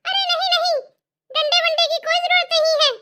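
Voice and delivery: mother-in-law suddenly reviving in alarm; startled protest. Acted. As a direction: jump up protesting the beating. Mother-in-law jolts awake at threat.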